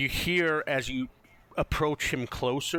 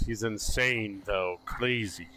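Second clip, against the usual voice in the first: Ismar; 2 semitones lower than usual. Acted. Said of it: "Ismar comes up to you and goes".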